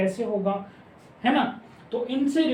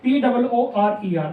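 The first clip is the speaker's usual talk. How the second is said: spelling out letters; 2 semitones higher, 4 dB louder, slower than usual. Shown as a demonstration. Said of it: "हमें बनाना है".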